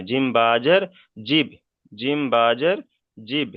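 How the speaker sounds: "জিব" as one closed syllable ending in b; teacher modelling "জিব" after naming its letters; pronunciation demo. Shown as a demonstration. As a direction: spell out, then land on "জিব". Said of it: "জিম বাজের কি উচ্চারণ হয়".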